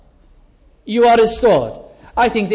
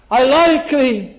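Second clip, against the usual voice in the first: higher and slow, leaning on like; drawn-out plea; 6 semitones higher, slower than usual. Acted. Peter repeats his answer to Jesus, a slow, high plea. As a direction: stretch out "like" slowly, up high.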